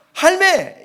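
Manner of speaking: loud, high Gyeongsang exclamation; Gyeongsang dialect. Shown as a demonstration. Preacher answering dialect quiz, high Gyeongsang outcry. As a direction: scold in one Gyeongsang word, high and sharp. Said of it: "경상도 발음을 잘하시네".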